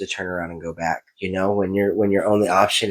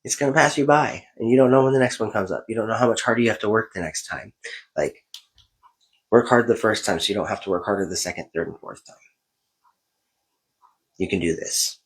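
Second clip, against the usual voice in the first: stern self-lecture, mostly in own voice; a light touch of a tough-love parent; self pep talk; 2 semitones higher than usual. Retold or imitated. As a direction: scold yourself like a coach. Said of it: "and I was just like".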